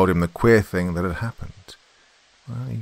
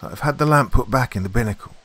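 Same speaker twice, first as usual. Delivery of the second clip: steady, raised call; controlled, louder and higher statement; even voice; 5 semitones higher, 5 dB louder than usual. A narrator's reading. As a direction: reassure evenly across the water. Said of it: "asked Will in an even voice".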